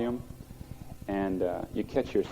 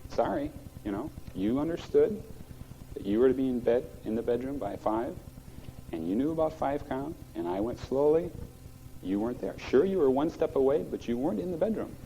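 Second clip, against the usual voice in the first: calm; 4 semitones higher than usual. Retold or imitated. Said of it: "just very calmly say".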